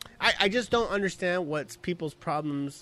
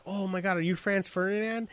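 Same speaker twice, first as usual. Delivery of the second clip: softer, raised voice of a starstruck fan; gushing fan; 3 semitones higher, 5 dB quieter than usual. Retold or imitated. Fan coming up to the lead singer, gushing. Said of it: "when fans would come".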